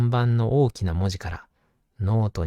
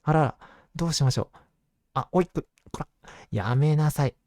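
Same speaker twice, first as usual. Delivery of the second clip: flustered; 2 semitones higher, faster than usual. Acted. Bug eating the book.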